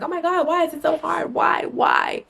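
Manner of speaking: high, whiny mock despair; exasperated whine. To her vlog viewers, a high whiny mock complaint. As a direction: whine it like you're about to cry. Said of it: "I'm like".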